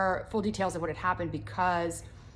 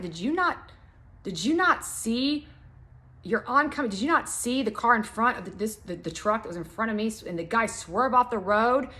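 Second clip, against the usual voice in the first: incredulous; 3 semitones higher, 3 dB louder than usual. Retold or imitated. Confronting aggressive driver.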